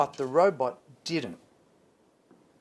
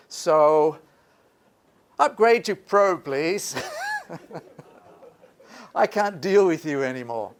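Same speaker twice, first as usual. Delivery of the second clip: whiny fed-up app voice; 2 semitones higher, 4 dB louder than usual. Pretend. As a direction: play a sulky app giving up.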